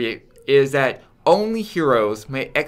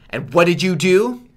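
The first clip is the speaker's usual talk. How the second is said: mock scolding; 4 semitones higher, 5 dB louder than usual. Quoted scolding parent line.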